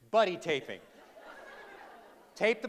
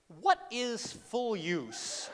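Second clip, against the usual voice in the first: wry musing; 2 semitones lower, 8 dB quieter, slower than usual. Retold or imitated. Wry inner question.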